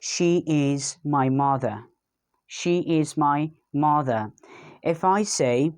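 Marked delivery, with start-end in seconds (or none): 0.0-1.8 mother ending in a schwa, no R; slow sentence with R-less mother; non-rhotic mother. Shown as a demonstration. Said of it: "one can pronounce like this". 2.5-4.3 mother with the final R dropped; British-style mother without the R; non-rhotic mother. Shown as a demonstration. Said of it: "one can pronounce like this".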